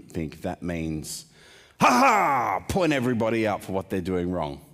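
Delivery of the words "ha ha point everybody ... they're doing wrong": mocking. Mocking imagined finger-pointing crowd.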